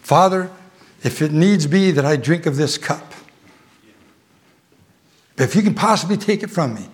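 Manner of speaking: voicing Jesus' prayer. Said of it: "more like the prayer of Jesus Christ in Gethsemane".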